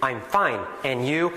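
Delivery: overly careful, word by word; formal textbook greeting. Shown as a demonstration. A teacher mocks the formal classroom greeting, overly careful. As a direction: pronounce every word perfectly. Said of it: "that kind of very formal".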